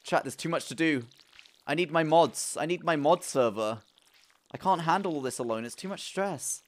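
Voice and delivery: stressed-out wail to chat; overwhelmed pleading. Real, not acted. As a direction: plead as if it's all too much.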